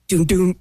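voiced double thunk of a door; imitated locked-door sound. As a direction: mimic tugging a stuck door. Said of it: "So then I'm like".

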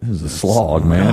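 low, weary retold reply; glum, deadpan answer. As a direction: drop the pitch, worn down. Retold glum answer to chipper question.

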